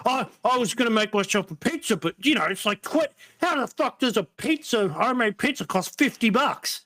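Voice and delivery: high whiny mocking voice; mock a whining TikToker; whiny complainer.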